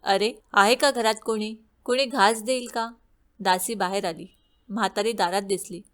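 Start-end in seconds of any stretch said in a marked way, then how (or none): 0.0-2.9 put-on old beggar woman calling loudly at the door; a moderately raised call toward the house. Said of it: "तिने आरोळी दिली".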